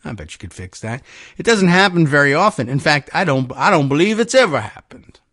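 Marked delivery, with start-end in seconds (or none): 1.4-5.2 lightly put-on old Georgia lawmaker; old Georgia accent. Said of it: "old Georgia in my accent".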